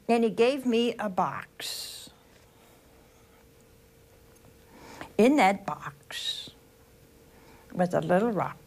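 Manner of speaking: slow whisper, building suspense; hushed storytelling. A narrator's reading. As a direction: whisper it slowly as if revealing a secret.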